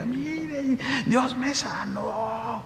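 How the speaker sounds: tender, grateful telling; soft testimony. Retold or imitated. Healed woman testifies softly.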